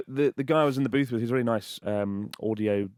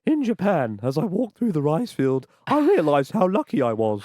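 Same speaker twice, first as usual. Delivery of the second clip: higher, declaimed audiobook reading; book narration; 4 semitones higher, 4 dB louder than usual. Acted. Author reading his book in the audio booth, declaimed narration. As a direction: read it out like a proud narrator.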